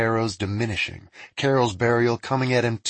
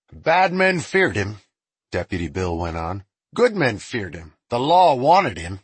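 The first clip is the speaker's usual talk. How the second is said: deputy voice; 4 dB louder than usual. Acted. Deputy character voice.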